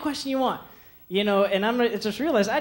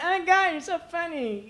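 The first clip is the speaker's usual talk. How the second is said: put-on high, slow, girly gush; 9 semitones higher, slower than usual. A comedian mimics a pretty girl charmed by him, high and girly. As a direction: swoon over him like a smitten girl. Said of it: "She's like".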